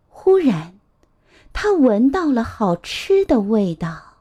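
put-on measured, expressive storytelling to a child; picture-book narration. A narrator's reading. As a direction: read a picture book aloud to little ones.

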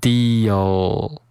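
"Deal" drawn out into a dark final l; "Deal" as dee-ul, finishing on the l; tongue-tip L. Shown as a demonstration. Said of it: "需要把舌尖儿顶上去".

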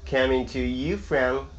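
slow, drawn-out announcer-style introduction; podcast host intro. Acted. Host welcomes listeners to an English podcast, drawn-out announcer delivery. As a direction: introduce yourself to listeners, stretching key words.

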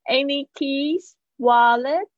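"keys" and "wallets" each rising; rising list tune. Shown as a demonstration. A teacher modelling a rising list question. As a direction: lift each item in the list. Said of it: "用这样子的上升的方式说".

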